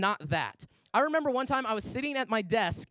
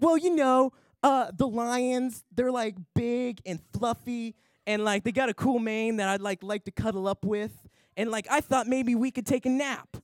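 put-on dreamy little girl. Sydney's dreamy reply voiced.

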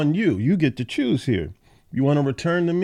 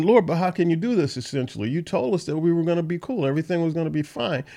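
imitating bewildered Jeremiah; 4 semitones higher, 3 dB quieter, faster than usual. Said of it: "Jeremiah ... was saying".

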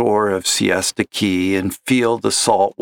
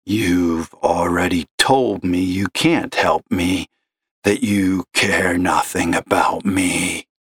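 slow gravelly despair; a despairing caller's gravelly drone; gloomy gravelly caller; 2 semitones lower than usual. Acted. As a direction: sigh it out like a lost man. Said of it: "gravelly voice like that".

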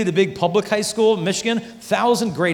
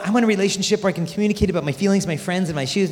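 put-on girl on phone; 3 semitones higher, faster than usual. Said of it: "They get on the phone".

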